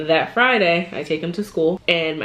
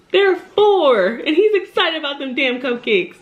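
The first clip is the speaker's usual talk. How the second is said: high, sneering imitation of the teacher; mock teacher voice; 8 semitones higher, slower than usual. Mom mocking the teacher, high and sneering. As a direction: mimic her dismissive tone about the kid.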